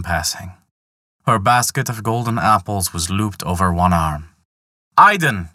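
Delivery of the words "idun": louder, higher call across the field. Acted. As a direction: hail her from a distance. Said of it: "called Loki".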